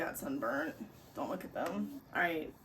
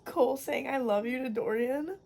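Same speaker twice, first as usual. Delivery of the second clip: louder, overwhelmed plea; begging the book to stop hurting; emotional outburst; 3 semitones higher, 4 dB louder than usual. Real, not acted. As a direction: fan undone by a confession.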